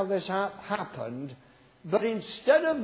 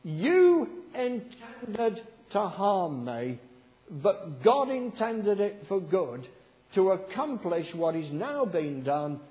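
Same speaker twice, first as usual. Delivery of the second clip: measured Bible reading voice; scripture reading. Acted. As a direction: read the verse with weight. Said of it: "I love this verse".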